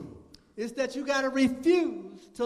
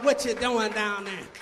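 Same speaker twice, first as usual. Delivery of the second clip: lower, sneering taunt; mock the little flock's faithfulness, lower; discouraging mocker; 4 semitones lower, 4 dB quieter than usual. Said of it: "discourage you and try and minimize".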